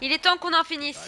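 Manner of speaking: hammed-up echo of the villain; mock villain. Streamer mocking the game boss, loud high parody.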